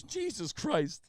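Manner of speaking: mock appalled coworker, no laugh in it; unamused exasperation. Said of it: "He didn't even laugh".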